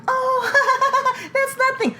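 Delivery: very high mock voice of a brush-off parent; high-pitched, laughing brush-off, imitated; dismissive parent. Parent shrugging off a child's hit, mock dismissive.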